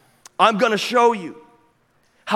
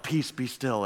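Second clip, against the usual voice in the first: hushed, much softer, slow and serene; deep spiritual calm; 5 semitones lower, 9 dB quieter than usual. Retold or imitated. Preacher imagines Jesus calmly hushing the storm, softly. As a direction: let the words settle like still water. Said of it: "this very deep spiritual moment".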